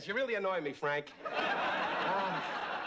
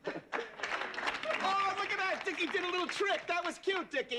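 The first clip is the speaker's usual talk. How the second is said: put-on high, sing-song baby talk, like cooing at a puppy; high mock baby talk to a pet; 8 semitones higher, slower than usual. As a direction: coo at him like he's a dog. Talking to Dick like a pet.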